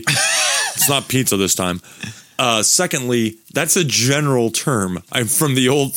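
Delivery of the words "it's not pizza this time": laughing. Real, not acted. Laughing joke about snack.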